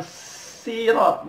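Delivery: SIRAT with a long, thin hissed s; wrong thin s. Shown as a demonstration. Teacher shows what to avoid, thin s. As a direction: exaggerate the light s of "sirat".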